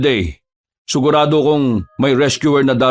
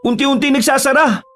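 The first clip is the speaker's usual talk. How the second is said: put-on much higher, amazed kid voice; excited child; 9 semitones higher than usual. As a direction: gasp it out in wonder. Child sees wounds closing.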